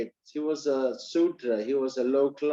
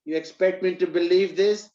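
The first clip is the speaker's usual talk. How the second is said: higher, laughing scorn; mocking laugh; 5 semitones higher, slower than usual. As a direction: laugh him off as a fool. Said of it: "the Brahmin started laughing".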